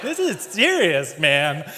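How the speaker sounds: alarmed. Retold or imitated. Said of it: "I'm kinda like".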